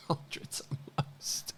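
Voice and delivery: breathless, wheezing laugh through the words; helpless laughter. Real, not acted. Cracking up at a wrong online claim, breathless laughing. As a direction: repeat it almost voiceless with laughter, slowly.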